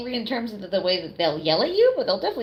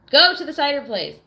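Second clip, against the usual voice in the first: exasperated outburst; 6 semitones higher, 6 dB louder than usual. Real, not acted. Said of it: "frustrated exclamation".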